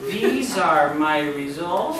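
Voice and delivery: slow, ending in a rise on "results" as if a question; mock doubtful uptalk; doubtful rising tone. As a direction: ask "These are my results?" unsure, rising. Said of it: "He goes".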